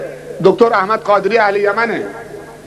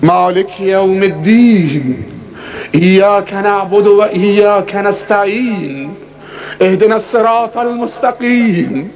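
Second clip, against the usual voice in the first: slow, drawn-out chanted recitation of al-Fatiha; Arabic recitation in a measured chant; Quran recitation; slower than usual. Acted. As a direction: intone each verse slowly and reverently.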